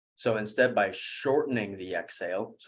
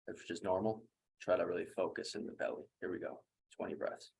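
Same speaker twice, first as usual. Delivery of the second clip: softer, understated coaching voice; guided breathwork; 5 dB quieter than usual. Real, not acted. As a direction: lead them quietly into the breathing. Guides into second breathing round.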